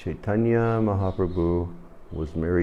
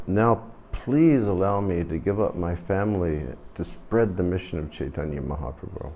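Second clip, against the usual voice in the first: ordinary talk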